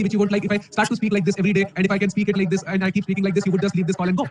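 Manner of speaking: flat, unvarying monotone; deliberately dull monotone teacher voice; monotone demo. Shown as a demonstration. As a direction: drone it with no melody on purpose. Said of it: "I can speak it monotonously".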